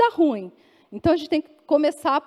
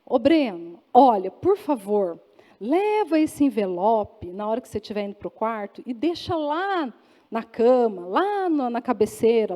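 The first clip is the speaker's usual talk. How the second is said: lower-pitched, coaxing request to a husband; sweet, polite pleading; 3 semitones lower than usual. Acted. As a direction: ask gently, laying on the endearments. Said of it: "Aí eu tinha que começar assim". (pedido carinhoso e gentil)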